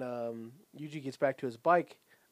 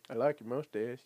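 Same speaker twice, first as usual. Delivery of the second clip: puppy voice. Retold or imitated. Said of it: "Tom's fucking puppy voice".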